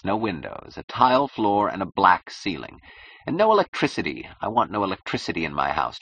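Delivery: emphatic, dictatorial list of whims; a touch of imperious eccentric; lightly voiced eccentric client. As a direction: issue demands with lofty impatience. Narrator voices the client's demands.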